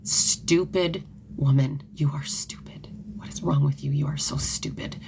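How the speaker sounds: a hint of a cruel self-scolding whisper; harsh inner voice. Woman scolding herself in the mirror, mild whispered contempt. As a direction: hiss insults at yourself in the mirror. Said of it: "and I would be like".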